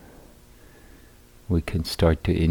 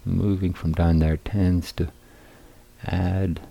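unhurried guiding voice with long pauses; guided meditation. Real, not acted. Teacher guiding seated meditators into balanced posture, calm guided meditation. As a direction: lead them calmly through settling the body, phrase by phrase.

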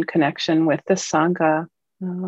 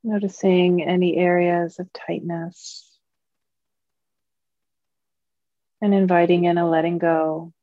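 calm, measured meditation guiding, long pauses between phrases; guided meditation. Acted. Teacher leading Dharma friends into mindfulness practice, calm guided meditation. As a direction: guide a group gently, leaving long silences.

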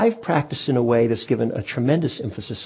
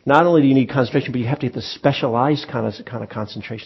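strict teacher, insistent; 4 dB louder than usual. Retold or imitated. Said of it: "might say".

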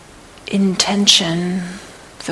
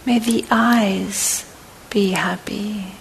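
guided meditation; 6 dB quieter than usual. Acted. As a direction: guide them gently through each phrase, unhurried. Leads a loving-kindness body scan.

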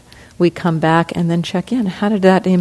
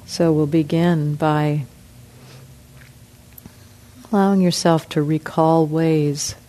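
guided meditation. Real, not acted. Teacher leads group through forgiveness practice, guided meditation. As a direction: ease them into reflection, pausing often.

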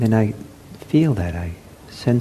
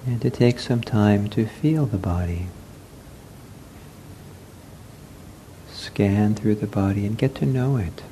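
unhurried meditation guidance with long pauses; guided meditation; 6 dB quieter than usual. Real, not acted. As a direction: guide them gently into the body, leaving space. Leads a seated meditation.

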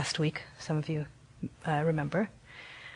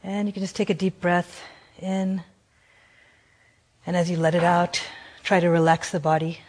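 gentle meditation guidance with long pauses; guided meditation. Acted. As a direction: guide them unhurriedly, leaving long silences between phrases. Leads a guided compassion meditation.

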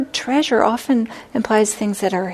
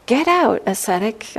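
ogre's command; 3 semitones higher than usual. Acted. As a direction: toss the monk out with contempt. Fourth ogre command.

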